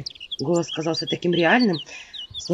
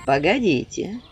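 rancorous; slower than usual. Acted. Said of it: "очень злопамятным голосом".

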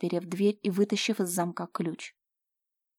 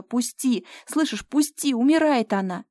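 higher, louder desperate cry; frantic screaming; 5 semitones higher, 6 dB louder than usual. Acted. Slava screams at Fyodor as her mother dies. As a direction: scream to break free. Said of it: "крича".

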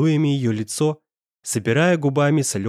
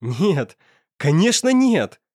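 a high, louder, slow laughing "no, of course not"; 4 semitones higher, 3 dB louder, slower than usual. A narrator's reading. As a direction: laugh the denial away, relieved. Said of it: "Рассмеялся парень".

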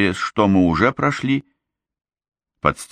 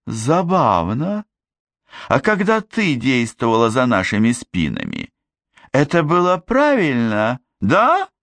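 indignant; 7 semitones higher than usual. Acted. Gert retorts to Glinda, indignant and high. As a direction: throw it back, outraged. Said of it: "возмутилась Герт".

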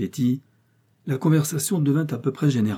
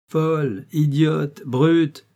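raised, emphatic string of insults; indignant exclamation; 5 semitones higher, 4 dB louder, much slower than usual. A narrator's reading. Young man scorning those who mocked, indignant exclamations. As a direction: fire each insult higher and louder. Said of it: "s'écria le jeune homme".

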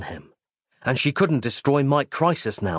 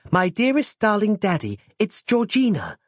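put-on much higher, childlike reading; little girl's voice; 9 semitones higher than usual. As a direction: read it as a tender little daughter. Reads daughter's letter aloud.

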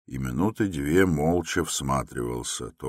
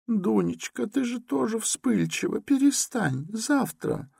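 high, gentle mother calming; soothing mother. A narrator's reading. Mother calms her quarrelling daughter, high and gentle.

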